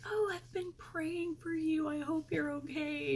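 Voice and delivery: high, hushed, caring customer voice; mock-tender whisper of a customer praying for her; sympathetic customer. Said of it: "And he was like".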